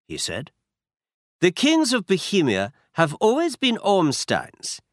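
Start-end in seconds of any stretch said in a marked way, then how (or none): 1.4-4.8 put-on a higher, proud Bohemian noble with a German accent; a masked aristocrat in a German accent. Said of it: "He had a strong German accent".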